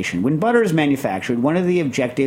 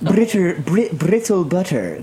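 puffing gun announcer voice; 5 semitones higher, slower than usual. Pretend. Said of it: "I'm announcing the puffing gun voice".

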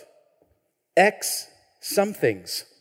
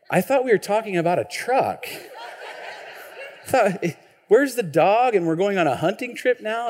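retold bafflement; 3 semitones higher than usual. Retold bafflement at father-in-law's saying.

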